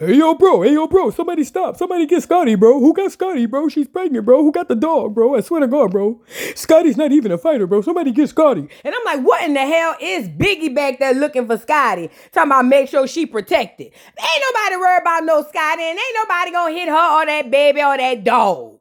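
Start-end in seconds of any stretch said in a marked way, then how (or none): 0.0-8.7 deep baritone hollering, kept mild. Retelling what a man hollered in the background, imitating a deep hollering voice. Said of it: "a deep tenor baritone voice holler".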